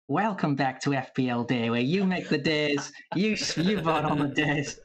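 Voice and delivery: chatty go at an Australian accent; Aussie accent attempt. Shown as a demonstration. Welcoming viewers back to the show, put-on Aussie accent. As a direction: say it like an Aussie presenter. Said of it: "I'll give the Aussie one a crack".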